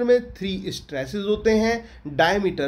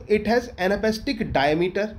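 slow dictation; 2 semitones higher, much slower than usual. Shown as a demonstration. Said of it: "dictating notes".

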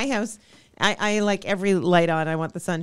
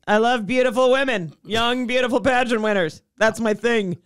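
imitating Alan Thicke; 4 semitones higher, 3 dB louder than usual. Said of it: "and he's like".

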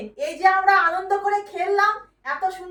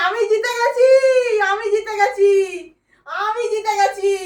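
overjoyed cry of victory; shrieking jackpot winner. Real, not acted. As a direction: shout the win with tearful joy. Mother wins the game. (আনন্দে চিৎকার করে জয়ের ঘোষণা)

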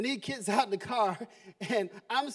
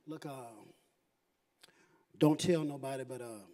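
much softer, low confiding voice; hushed confession; 12 semitones lower, 8 dB quieter than usual. Retold or imitated. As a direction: confide it quietly to the cop. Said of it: "and I'm like".

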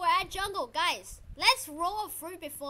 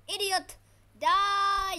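loud, high taunting yell; battle shout; 6 semitones higher, 10 dB louder, much slower than usual. Real, not acted. Player attacking an opponent in game, battle shout. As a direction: shout it as you strike.

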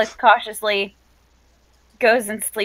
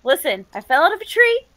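lightly voiced character, higher pitched; character's urgent explanation; 4 semitones higher than usual. Character telling camp about falling from a tree, insistent. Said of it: "She says".

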